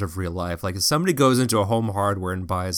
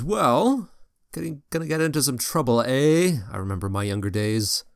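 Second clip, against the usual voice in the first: put-on old shopkeeper voice. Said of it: "he says".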